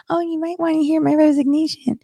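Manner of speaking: high, softened mimicry of polite formality; mock formal. Host mimics the wrong way to resign, high mock politeness. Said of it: "they're using formal verbiage".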